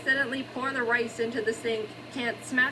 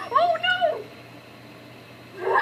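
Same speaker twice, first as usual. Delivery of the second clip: dismayed oh no. Real, not acted. Pie burns in oven.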